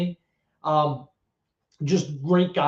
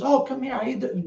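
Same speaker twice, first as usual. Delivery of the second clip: lightly acted gentle welcome, pitched higher; retold gentle greeting in a higher voice; imitating De Niro, gentle; 8 semitones higher, faster than usual. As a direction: greet a child kindly, voice lifted. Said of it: "gentle as, like, a kitten".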